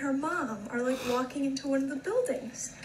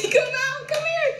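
calling out; 14 semitones higher than usual. Real, not acted. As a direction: call the dog over. Calling the dog.

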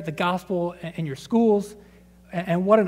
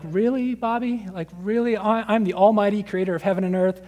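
exasperated God. Retold or imitated. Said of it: "he's just shaking his head like".

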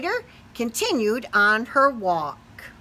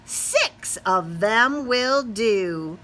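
slow spider; much slower than usual. Acted. Spider answers mama.

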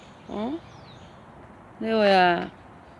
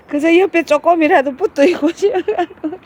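laughing; 7 semitones higher, 4 dB louder than usual. Real, not acted. Amused by the dog.

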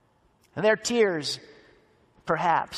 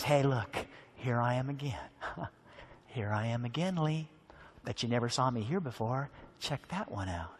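playful Jesus; 4 semitones lower than usual. Acted. Jesus voiced showing himself playfully.

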